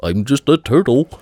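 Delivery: turtle quote voice. Pretend. Movie quote.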